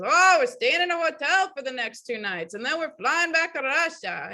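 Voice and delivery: lightly faked Russian accent, breezy. Imitating runner telling his travel plans, Russian accent. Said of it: "really heavy Russian accent".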